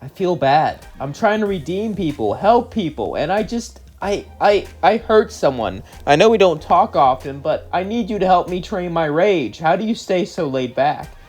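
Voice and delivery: acted upset, a touch overwrought; mildly distressed confession. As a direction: confess haltingly and plead for help. Charlie confesses guilt, begs father's help.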